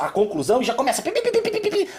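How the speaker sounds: high repeated mock bleeps; bleeping noise. Mocking the internet crowd with high beeps. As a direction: beep like a censor over them.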